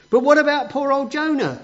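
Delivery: lively read-aloud to a class; dramatic storytelling. A narrator's reading. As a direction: build the suspense for the kids.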